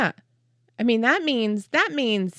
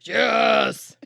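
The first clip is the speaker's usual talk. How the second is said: monster voice; 3 dB louder than usual. Shown as a demonstration. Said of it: "Somebody's gotta hear you. Drop it down".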